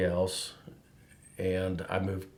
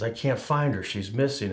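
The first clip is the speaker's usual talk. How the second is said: retold frantic plea; 3 semitones higher, 4 dB louder than usual. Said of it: "he's just all frantic".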